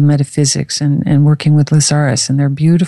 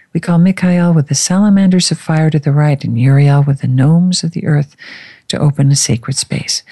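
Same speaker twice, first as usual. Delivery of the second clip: ritual invocation. Acted. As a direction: intone it like a ceremonial prayer. Opens a sacred space invocation.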